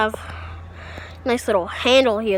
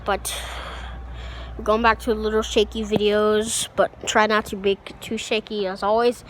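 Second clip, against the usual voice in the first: muffled behind a mask; through an n95 mask; 4 dB quieter than usual. Real, not acted. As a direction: talk through a face mask. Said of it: "I'm wearing an N ninety-five mask today".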